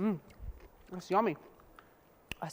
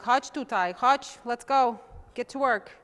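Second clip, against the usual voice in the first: bossy mom voice, louder; mom calling me over; 3 semitones higher, 6 dB louder than usual. Retold or imitated. Mom ordering her daughter to help, bossy call. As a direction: call the kid to come work. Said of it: "She'd be like".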